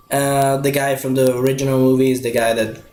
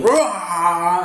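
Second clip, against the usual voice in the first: mock lion roar; 4 semitones higher than usual.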